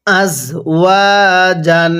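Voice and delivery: "আজ" ending in a buzzing z, "ওয়া" held long; proper Arabic za. Shown as a demonstration. Teacher modelling za for learners, "আজ" with a clear z sound. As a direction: say "আজ ওয়া জান" measured, with z in "আজ". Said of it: "ঝাকে ঝায়ের মতো করেই উচ্চারণ".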